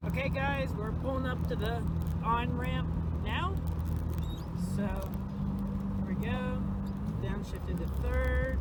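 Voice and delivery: jolted voice in a shaking car; talking while the car rattles; on a bumpy road. Real, not acted. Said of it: "Sorry for the shaky footage".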